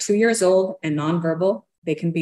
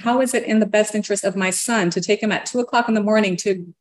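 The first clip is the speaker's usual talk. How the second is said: higher, indignant run-on rant; 5 semitones higher than usual. Retold or imitated. Mother ranting to her lawyer about her son, indignant. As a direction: protest in one long, raised-pitch outpour. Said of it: "I just start ranting".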